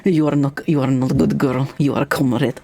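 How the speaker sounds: put-on playful Russian accent; mock Russian speaker. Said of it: "I can do Russian".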